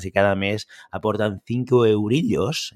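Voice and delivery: mock Catalan accent, slow; lightly put-on Catalan lilt for money talk. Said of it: "Lo pongo con este acento catalán". (acento catalán de broma)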